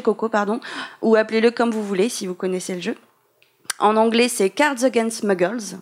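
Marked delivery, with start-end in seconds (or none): 4.5-5.8 slow attempt at an English accent. Shown as a demonstration. Podcast host showing off her English accent to listeners, English accent. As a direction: say it in careful, French-tinged English. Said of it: "Mon accent, vous avez manqué".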